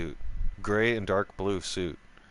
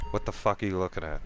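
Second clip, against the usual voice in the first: quick, understated confrontational question; offhand challenge; 2 semitones lower, faster than usual. Retold or imitated. Drinker to the man staring across the table, offhand challenge. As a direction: challenge him quickly without raising your voice. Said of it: "I said like that".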